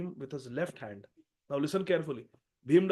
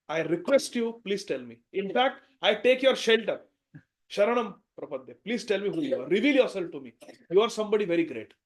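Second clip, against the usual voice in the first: loud pleading; 3 semitones higher, 7 dB louder than usual. Acted. Bhim begs the god-monkey.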